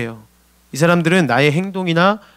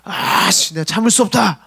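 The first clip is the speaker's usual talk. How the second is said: mock outburst; 2 semitones higher, slower than usual. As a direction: imitate an ex losing patience. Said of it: "서로 막 죽이겠다고 막".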